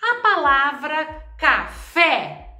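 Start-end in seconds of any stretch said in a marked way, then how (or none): 1.4-2.5 "café" in two slow beats, weight on fé; stress on last syllable. Shown as a demonstration. Teacher showing the stressed last syllable, deliberate emphasis on fé in "café". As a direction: split "café", landing firmly on the fé. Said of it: "ela tem acento no fé".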